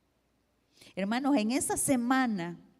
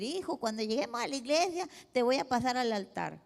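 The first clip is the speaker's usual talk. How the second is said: mock churchy mother; 2 semitones higher than usual. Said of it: "ya iba a actuar como religiosa".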